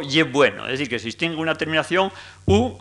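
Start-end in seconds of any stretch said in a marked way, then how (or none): 0.0-0.6 ye bueno with final o; dialect form. Shown as a demonstration. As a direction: lecturer repeats ye bueno with clear o. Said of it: "y esto, lo que pasó".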